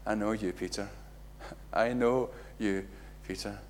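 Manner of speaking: soft, low, knowing reply with a chuckle; quiet and knowing, with a little laugh; knowing Jesus. Acted. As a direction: say it gently, amused. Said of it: "imagine the look on Jesus' face".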